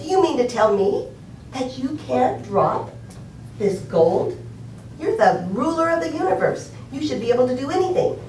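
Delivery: angry wife challenging her husband, playfully acted. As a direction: drag out the disbelief, then rush the rebuke. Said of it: "she becomes more angry, more angry".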